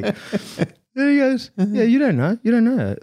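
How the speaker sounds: high voice broken by laughter; laughing. Real, not acted. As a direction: keep giggling through it. Still laughing in retelling.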